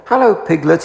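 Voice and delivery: squeaky Roo. A narrator's reading. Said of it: "he squeaked".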